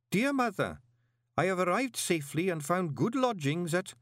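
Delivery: high, scratchy-toned country lad reading his letter home; a reluctant farm boy writing to his mum; scritchy country boy voice. A narrator's reading. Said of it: "The voice sounded like a country boy".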